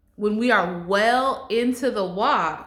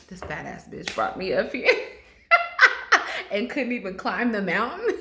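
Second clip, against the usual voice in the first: imitating him, laughing. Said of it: "He gonna be like".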